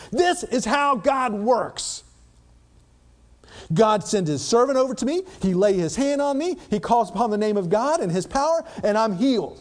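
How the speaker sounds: smug certainty. Acted. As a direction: say "This is how God works" like a proud man sure of himself. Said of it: "He had a preconceived expectation".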